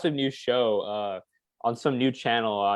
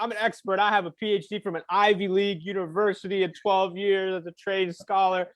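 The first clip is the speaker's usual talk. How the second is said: animated; 5 semitones higher than usual. Retold or imitated. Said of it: "like, animated".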